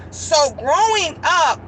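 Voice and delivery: high, slow, crying; choked up. Real, not acted. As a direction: let the tears break through. Emotional childhood memory.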